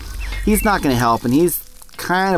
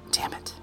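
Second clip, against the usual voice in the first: sigh; 13 dB quieter than usual. Acted.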